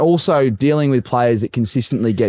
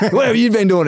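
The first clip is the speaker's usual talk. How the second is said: high, laughing coach voice; imitating the coach; 10 semitones higher than usual. Coach pressing Kepler, high mock voice with a laugh. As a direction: ask it high through the laughter. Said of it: "he's just gone".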